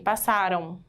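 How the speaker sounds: "Passaram" with the final M as a faint U; weak final M. Shown as a demonstration. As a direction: let the ending of "Passaram" fade to a weak U. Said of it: "Ficou fraquinha".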